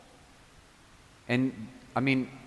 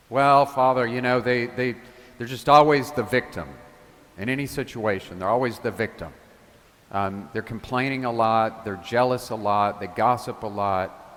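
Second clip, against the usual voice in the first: parishioner's answer; 4 dB louder than usual. Retold or imitated. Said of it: "imagined parishioner answering the priest".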